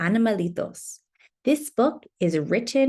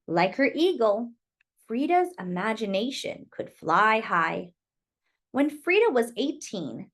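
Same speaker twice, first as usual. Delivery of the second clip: gentle, lilting picture-book reading; reading to children. Acted. Teacher reading a picture book to children, gentle and lilting. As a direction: read it like storytime for little kids.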